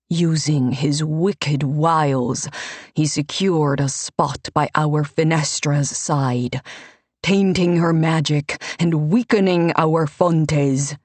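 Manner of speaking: a pious man playing to the crowd, lightly voiced; Ivini the priest. Ivini accuses Dante to crowd.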